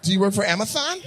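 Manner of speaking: "Amazon" said with th for z; mock lisped "Amazon"; teasing lisp. Mocking the man's lisp.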